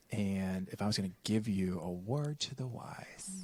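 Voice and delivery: hushed confiding whisper. Real, not acted. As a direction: whisper it like a secret. Leans in to share advice.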